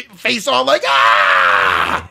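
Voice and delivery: strained grunting face; constipated grunt. Retold or imitated. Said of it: "He's got that constipated fi".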